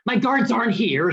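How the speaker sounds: a touch of a panicked high cry; king flustered, lightly shrieking; mild shriek. Acted. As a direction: raise the voice in flustered alarm. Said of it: "shrieked the king".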